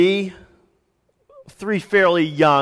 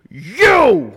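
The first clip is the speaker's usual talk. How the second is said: put-on high, loud kid shout; shouted child's answer; 10 semitones higher, 6 dB louder than usual. Son shouting back at his dad, high and loud. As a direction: yell it like a cornered little boy.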